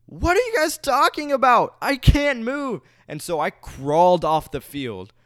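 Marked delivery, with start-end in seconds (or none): 0.0-2.8 high, loud, bewildered cry; confused high-pitched protest. Retold or imitated. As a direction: squeal it out in disbelief. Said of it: "I was just so confused".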